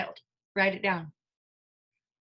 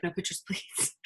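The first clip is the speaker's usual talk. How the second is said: bodyguard; 8 dB quieter than usual. Retold or imitated. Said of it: "a bodyguard".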